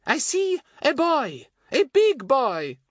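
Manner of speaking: high, slow French fortune-teller voice; French woman's accent. A narrator's reading. Fatty re-enacting his hand reading, French woman's accent. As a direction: intone mysteriously with a put-on French accent. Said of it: "sounding like the Frenchwoman again".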